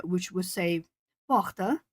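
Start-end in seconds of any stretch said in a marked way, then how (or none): 1.3-1.8 porta in a sing-songy northern Brazilian accent; northern Brazilian porta, lilting up at the end. Shown as a demonstration. Streamer showing how northerners say door, sing-songy northern Brazilian accent. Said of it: "similarly to someone from the northern area".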